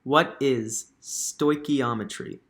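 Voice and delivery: slow, careful repeat. Real, not acted. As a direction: spell it out slowly. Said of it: "you cut out".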